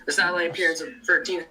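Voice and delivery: choppy, breaking-up call audio; glitching out. Real, not acted. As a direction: voice cutting in and out over the stream. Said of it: "You're glitching out a little bit".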